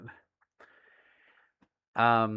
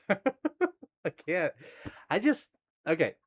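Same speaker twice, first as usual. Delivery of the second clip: embarrassed whisper; 5 semitones higher, slower than usual. Real, not acted. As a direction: whisper it, flustered. Flustered after swearing.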